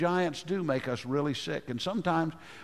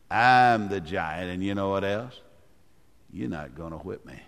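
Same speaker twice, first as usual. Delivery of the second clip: taunting giant; 5 semitones lower than usual. Pretend. Preacher voicing the taunting giant.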